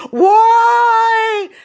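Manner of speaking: high, loud cat yowl. Retold or imitated. Drugged cat yowling at owner, high loud yowl. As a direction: wail like a drugged, frothing cat.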